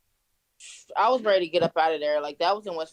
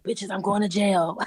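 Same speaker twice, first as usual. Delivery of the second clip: retold brazen cheer with a laugh; gleeful mock announcement; 4 dB louder than usual. Friend announces her arrest to her pals, gleeful imitation.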